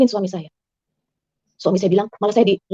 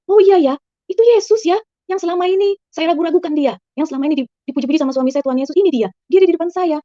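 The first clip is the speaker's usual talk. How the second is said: awed recognition; 8 semitones higher than usual. Retold or imitated. Woman retelling her dream of finally seeing Jesus, awed and excited. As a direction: gasp it out like seeing him at last.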